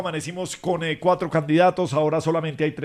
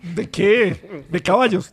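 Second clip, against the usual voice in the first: teasing interruption; 4 semitones higher, 4 dB louder, much slower than usual. Real, not acted. Host breaks in to heckle joke.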